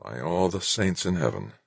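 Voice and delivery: soft muttered oath. Acted. Wixon cursing under his breath at the news, muttering. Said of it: "Wixon muttered".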